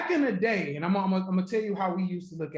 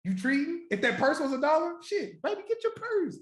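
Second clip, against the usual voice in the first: rising, teasing come-on voice; mock flirty ask; 5 semitones higher than usual. Teasing a date about buying her purse, rising higher. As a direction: egg her on to buy the purse. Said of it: "y'all went crazy when I said".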